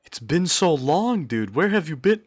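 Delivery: hammed-up joy at seeing a long-lost buddy; mock reunion. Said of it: "No, I'm kidding".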